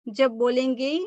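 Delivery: ordinary talk, nothing marked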